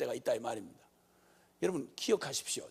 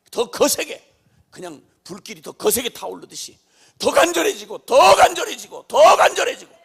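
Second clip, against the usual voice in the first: building fervent preaching; 4 semitones higher, 11 dB louder than usual. Acted. Preacher on prayer growing fiercer in hardship, mounting fervour. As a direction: build to loud, high insistent repeats.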